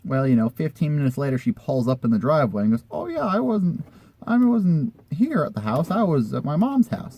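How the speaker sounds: high, put-on woman's voice; high mock voice of the friend; imitating the friend. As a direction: play her airy excuse. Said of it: "And she goes".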